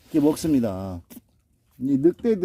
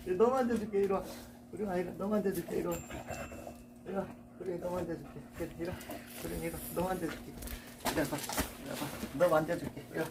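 soft coaxing; 3 semitones higher, 12 dB quieter, faster than usual. Real, not acted. Softly coaxing dog closer.

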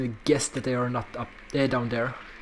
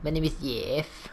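lightly imitated movie catchphrase; a hint of a comic movie character; Jeff; 3 dB quieter than usual. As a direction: quote the film line in a slightly put-on voice. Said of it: "I fucking love that guy".

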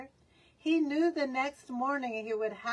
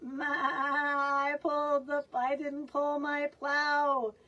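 bellowing ox; 4 semitones higher than usual. Acted. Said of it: "bellowed Ox".

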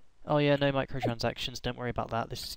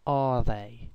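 exasperated; slower than usual. Real, not acted. Frustrated searching.

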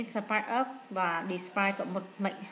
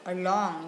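along stressed on the second syllable, a-LONG. Shown as a demonstration. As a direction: put the weight on LONG in along. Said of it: "nhấn âm hai".

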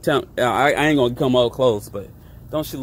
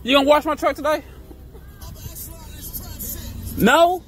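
much higher, mock-tough teasing; playful high teasing voice; 13 semitones higher than usual. Driver teasing passersby from truck, high mock voice. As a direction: play the tough guy, high and joking.

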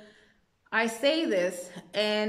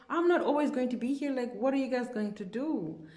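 exasperated retort; 5 semitones higher than usual. Retold or imitated. Exasperated reply to townspeople in retelling.

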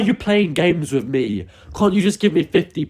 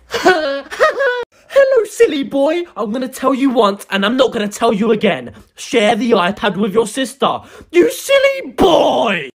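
put-on high old lady scolding; shrill grandma voice; 5 semitones higher than usual. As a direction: screech it like a cross granny. Grandmother orders him to share.

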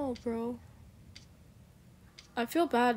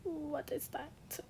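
wary; 4 semitones higher, 9 dB quieter than usual. Real, not acted. Wary on spotting something.

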